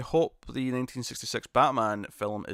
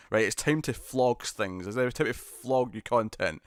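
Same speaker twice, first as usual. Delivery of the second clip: slow, drawn-out sales tone; lightly put-on shilling tone, words stretched; slower than usual. Streamer mocking their own plug for merch, shilling voice. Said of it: "certain tone that I just put on".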